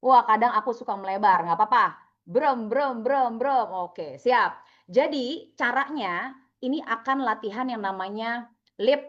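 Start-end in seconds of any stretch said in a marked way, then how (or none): 2.2-3.7 repeated "brem" motor mimicry; jet ski imitation. Shown as a demonstration. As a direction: run of spoken engine brems. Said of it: "Gimana bunyinya jet ski kira-kira".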